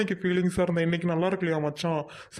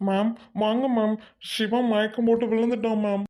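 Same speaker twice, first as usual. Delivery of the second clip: raised, higher-pitched call for help; urgent alarm; 4 semitones higher than usual. Acted. Student tells teacher a friend has fainted, alarmed.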